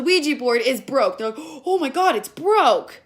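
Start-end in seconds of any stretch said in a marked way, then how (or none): 1.6-3.0 mock dismay. Voices upset friends.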